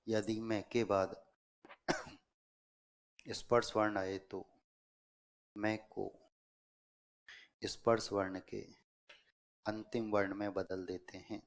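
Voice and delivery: broken into short chunks with long pauses; dictation. Real, not acted. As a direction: dictate phrase by phrase, waiting for writers. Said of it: "दोबारा नियम बोल रहा हूँ". (श्रुतलेख, रुक-रुककर बोलते हुए)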